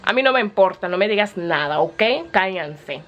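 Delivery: a lightly voiced sassy Spanish character, scolding; inner character voice. Characters in her head telling critics to shut up, sassy Spanish. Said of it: "characters that live inside my head".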